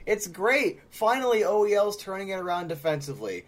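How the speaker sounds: high-pitched, over-delighted praise; sounding sarcastic. Real, not acted. Host credits a player's defense, sounding sarcastic. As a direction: stretch the praise as if mocking it. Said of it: "I know I'm sounding sarcastic".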